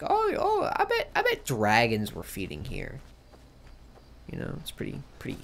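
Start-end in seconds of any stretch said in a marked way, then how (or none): 0.0-3.0 squeaky mock "oh" breaking into laughter; mock realization. Streamer mocking the game's logic, laughing. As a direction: play dumb and laugh through it. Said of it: "you're supposed to immediately think".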